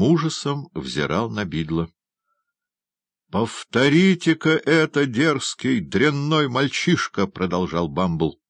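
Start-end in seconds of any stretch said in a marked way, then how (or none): 3.3-7.3 high-pitched angry demand; indignant scolding. A narrator's reading. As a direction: berate an insolent boy in outrage. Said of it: "в сильнейшем негодовании". (гневно отчитывая)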